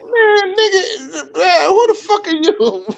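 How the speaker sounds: very high-pitched, half-laughing outrage; retold indignation. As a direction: replay being pissed off, breaking into laughter. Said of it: "it just pissed me off".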